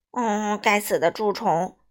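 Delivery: slow, mildly annoyed grumble; angry. A narrator's reading. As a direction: curse the pests with restrained annoyance. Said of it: "米歇尔生气地说". (略带生气，慢慢地抱怨)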